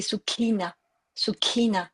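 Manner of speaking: Sukhina with a breath on the kh, falling at the end; aspirated kh. Shown as a demonstration. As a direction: exhale through the kh of Sukhina. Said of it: "il y a un H, euh, ex-, à l'expiration". (Sukhina avec un H expiré)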